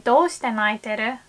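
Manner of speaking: a plain, textbook reading with no emotion behind it; textbook flat. Shown as a demonstration. Asking a crying friend why, in a flat textbook tone. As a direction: read "Doushite naiteru?" like a dry textbook line. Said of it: "it just doesn't sound very warm at all".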